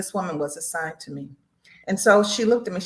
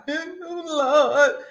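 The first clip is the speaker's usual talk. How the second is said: imitating crying out; 9 semitones higher, 3 dB louder than usual. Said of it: "back in the day, I'd be like".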